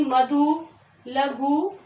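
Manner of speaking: मधु, लघु slowly, each ending on a long oo; slow sounding-out of the oo endings; final उ sound. Shown as a demonstration. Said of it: "last में इसकी आवाज आई उ की".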